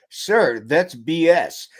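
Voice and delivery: slow, firm delivery; drilled blunt retort. Retold or imitated. Lieutenant tells captain off before the colonel, blunt retort. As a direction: declare it squarely, spacing out the words.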